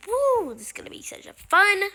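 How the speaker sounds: high, loud cheering woo; excited cheer. Real, not acted. Player cheering as the plane takes off, excited. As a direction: whoop with joy.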